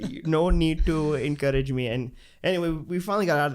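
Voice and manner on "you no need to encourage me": polite demurral in a mock Indian accent; put-on Indian accent. Reassuring the girl who defended him, put-on Indian accent. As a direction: wave off help in a faked Indian accent. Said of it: "without the accent".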